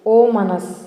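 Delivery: ఓమనస్ said clearly as o-ma-nas; repeat-after-me word. Shown as a demonstration. Teacher asking learners to repeat the word, clearly. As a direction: say ఓమనస్ for the class to echo. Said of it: "మళ్ళీ పలకండి నాతో పాటు".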